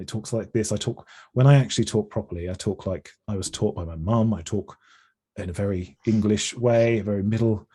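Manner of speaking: relax into your own very English accent; natural English accent. Shown as a demonstration. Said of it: "I'm gonna try and get into it".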